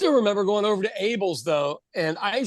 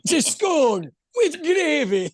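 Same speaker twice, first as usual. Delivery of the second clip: amused; 10 semitones higher, slower than usual. Real, not acted. Laughing joke about biscuit.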